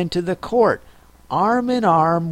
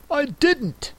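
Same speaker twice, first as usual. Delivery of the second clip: hurried; 13 semitones higher than usual. Acted. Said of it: "interrupted in a great hurry".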